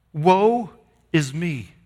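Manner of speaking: a mild, drawn cry of woe that sinks quickly; half-voiced lament, trailing down. Preacher voicing Isaiah's cry, a mild lament. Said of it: "And he cries out".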